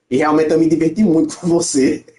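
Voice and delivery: breaking into a laugh; amused. Real, not acted. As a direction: let a laugh break into the sentence. Teasing farewell, laughs while speaking. (achando graça, rindo)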